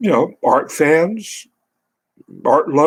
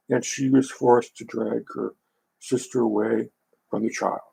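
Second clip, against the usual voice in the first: steady measured book reading; calm nonfiction narration voice; reading aloud. Acted. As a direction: read the passage evenly, like an audiobook.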